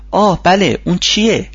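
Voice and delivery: excited. A narrator's reading. Michael eagerly asks Charlie for the advice, excited. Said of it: "مایکل با هیجان گفت".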